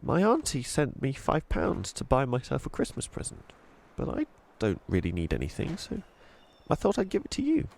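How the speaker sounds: put-on nervous girl voice. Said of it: "Chloe went on nervously".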